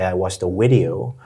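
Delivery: "video" said with a w sound for the v; German speaker's slip. Shown as a demonstration. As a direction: say "video" as if it began with w. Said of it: "Some German speakers will say".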